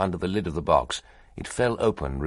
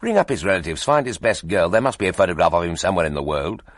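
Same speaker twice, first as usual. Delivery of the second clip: urgent demand; 5 dB louder, faster than usual. Acted. Editor demanding a photograph.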